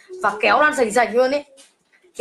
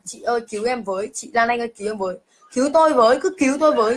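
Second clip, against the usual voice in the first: retold cry for help. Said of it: "Loan chỉ biết gào thét".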